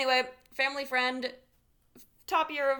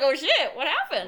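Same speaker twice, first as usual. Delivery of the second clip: "Oh shit" laughed out loud and high; laughing exclamation; 4 semitones higher, 7 dB louder than usual. Retold or imitated. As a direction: blurt it through laughter, amused shock. Shocked reaction laughing while retelling.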